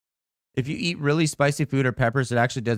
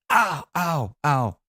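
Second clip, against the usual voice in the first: short ows, pitched up then falling; mock pained yelps; 3 semitones higher, much slower than usual. Streamer recalling just sitting there, mock pained ows. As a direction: act out little yelps of pain. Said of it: "I'm just sitting here like".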